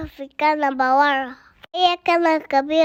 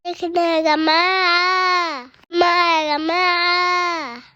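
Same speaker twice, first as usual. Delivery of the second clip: mock crying; slower than usual.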